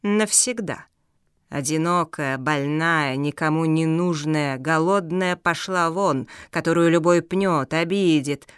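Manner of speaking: sinister villain. Acted.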